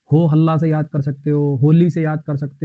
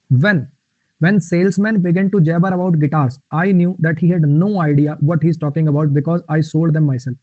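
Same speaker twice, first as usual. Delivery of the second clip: very slow, every word spaced; slow dictation; much slower than usual. Shown as a demonstration. Teacher reads the guitar example to students, very slowly. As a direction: read it out carefully for the class. Reading example sentence to class.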